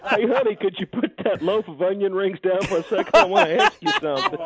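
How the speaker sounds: giggling through a mock proposal; laughing. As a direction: ask it while laughing, pitch rising. Acting out a restaurant proposal.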